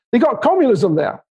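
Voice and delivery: a suspicious small-town barber, lightly played; imitating the barber. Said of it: "He says".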